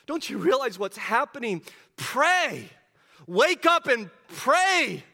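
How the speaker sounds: a frustrated teacher waking sleepy students; frustrated rebuke. Retold or imitated. Jesus rebukes his sleeping disciples, loud and frustrated. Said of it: "You can see his frustration".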